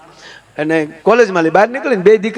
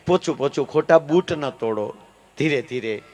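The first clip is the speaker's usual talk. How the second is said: much softer, coaxing and careful; a timid officer murmuring gently, softer; mock gentle softness; 3 semitones lower, 8 dB quieter than usual. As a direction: ease the words out as if tiptoeing. Meek officer tiptoeing gently.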